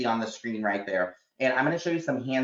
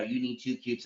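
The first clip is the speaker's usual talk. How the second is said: teacher instruction; 6 dB quieter than usual. Retold or imitated. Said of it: "I will tell them".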